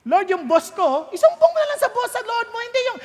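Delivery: half-joking, beg the Lord to step in; pleading prayer. Retold or imitated.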